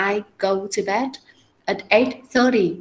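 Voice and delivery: slow, clear model sentence, stress on "thirty". Shown as a demonstration. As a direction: read "I go to bed at eight thirty" slowly, leaning on "thirty". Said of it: "họ không bao giờ nói là".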